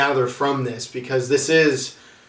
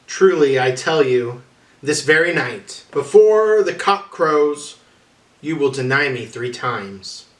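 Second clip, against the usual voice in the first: louder, slow on the cock crows; Jesus warning Peter; 3 dB louder than usual. Acted. Jesus tells Peter he will deny him, loud and slow. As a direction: press the warning home.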